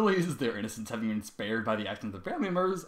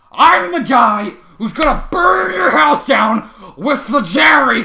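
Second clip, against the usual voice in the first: loud, higher, slow yelling; angry shout; 11 semitones higher, 16 dB louder, slower than usual. A narrator's reading. Trevor rants at the class, angry shout. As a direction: hurl threats across the room.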